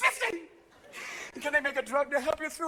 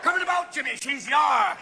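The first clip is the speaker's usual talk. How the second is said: sailor captain; 4 semitones higher, 3 dB louder than usual. Pretend. Sailing captain call.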